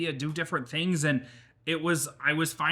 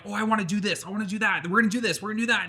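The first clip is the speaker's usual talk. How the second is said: higher, eager listing; eager rush of ideas; 6 semitones higher, much faster than usual. Retold or imitated. Creator listing all their ideas, eager and higher. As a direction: bubble over with plans. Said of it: "And they're like".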